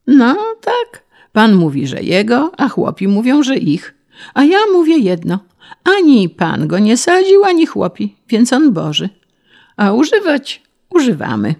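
high, insistent peasant voice; earnest peasant. A narrator's reading. Peasant explaining to the official whose forest it is, earnest.

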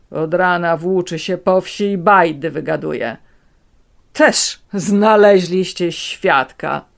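dismissive, slowed ending; scoffing. A narrator's reading. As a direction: brush the witness off. Grandfather scoffs.

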